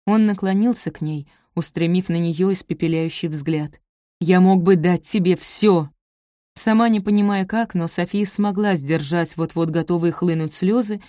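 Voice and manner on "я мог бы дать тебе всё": slow, loud, every word hammered; furious insistence. Acted. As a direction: hammer the offer home in anger. Furious lover repeats his offer.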